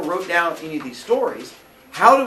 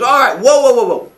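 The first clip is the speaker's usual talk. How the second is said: calling time out; 6 semitones higher, 10 dB louder than usual. Retold or imitated. Aesop calling for calm.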